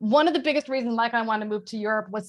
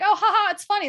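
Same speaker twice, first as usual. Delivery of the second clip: mock laughter; 10 semitones higher, 6 dB louder than usual.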